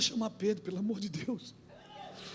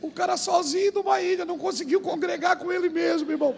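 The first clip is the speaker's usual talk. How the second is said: higher, louder preaching punch; excited punchline; 8 semitones higher, 4 dB louder than usual. Acted. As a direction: land the joke's moral with a lift. Sermon punchline after story.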